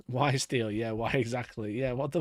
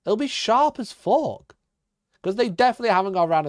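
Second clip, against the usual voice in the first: giggling, squeaky disbelief; laughing rant; 10 semitones higher, 8 dB louder than usual. Real, not acted. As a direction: laugh your way through the complaint. Laughing rant about metal terrain.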